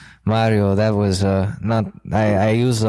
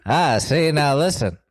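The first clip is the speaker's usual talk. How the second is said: Batman voice; 3 semitones higher than usual. Acted. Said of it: "is that how Batman talks".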